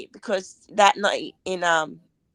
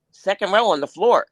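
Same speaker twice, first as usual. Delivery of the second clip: louder, impressed exclamation; mock astonishment at great seats; retold amazement; 5 dB louder than usual. Woman retelling her reaction to the tickets, amazed.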